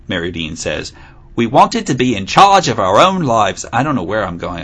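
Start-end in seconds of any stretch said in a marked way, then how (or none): 1.3-3.6 mock Australian accent. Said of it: "I'm going to Australia".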